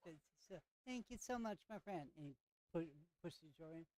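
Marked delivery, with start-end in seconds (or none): 0.9-2.1 cheerful mock Jamaican thanks; a hint of a Jamaican vendor; bad Jamaican accent. Vendor thanking the player for paying, light Jamaican accent. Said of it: "it's a horrible Jamaican accent".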